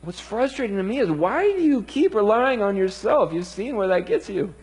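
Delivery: a hint of a frustrated but patient Lord; Jesus speaking. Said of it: "Jesus says".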